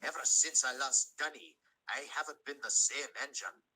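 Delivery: Scottish engine mourning his lost brother; Scottish brogue pushed out in sorrow; grieving Scottish engine. Acted.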